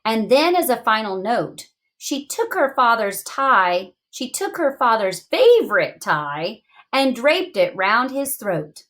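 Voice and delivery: storybook read-aloud, slowing at the end; reading to children. Acted. Teacher reading the story aloud to young students. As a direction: read it like a picture book to a class.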